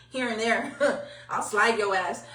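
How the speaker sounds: laughing it off softly; half-joking laugh. Real, not acted. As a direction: chuckle through the words. Joking about sliding somebody.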